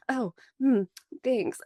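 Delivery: imitating an awkward, guarded reply; hesitant, uncomfortable mock thanks; weirded-out thanks. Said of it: "act really weird about it".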